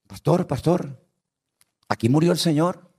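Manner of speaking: high, eager little churchgoer voice; odd sister asking. Retold or imitated. Pastor mimics the odd sister in his group, high and eager. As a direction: pipe up like an over-keen old sister.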